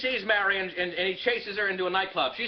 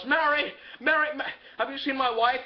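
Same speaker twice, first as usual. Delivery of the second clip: higher, stammering search; breaking from shouts into a question; excited calling; 5 semitones higher than usual. Acted. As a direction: call eagerly for your wife. George searching for his wife.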